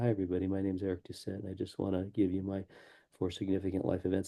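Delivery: very soft, quiet, unconfident chatty tone. Speaker teaching how to use a microphone, showing a bad introduction: unconfident, unprofessional delivery. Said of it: "it comes across as unconfident and unprofessional".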